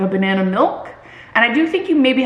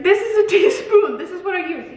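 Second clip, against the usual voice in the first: higher, mock-defensive insistence; insistent retelling; 8 semitones higher than usual. Creator proves her spoon to followers, insistent. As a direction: pitch it up as an over-earnest proof. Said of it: "being like".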